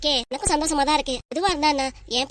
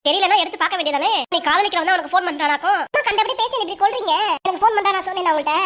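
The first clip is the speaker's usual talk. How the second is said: raised, heated scolding back and forth; mother daughter quarrel; 4 semitones higher than usual. Acted. Mother scolds her daughter over a secret lover, heated and raised. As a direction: argue like a mother catching her daughter in love.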